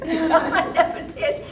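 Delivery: real laughter through the words, slow; giggling while admitting it; laughing. Real, not acted. Laughing as she admits she never told the captain. Laughing at her own secret.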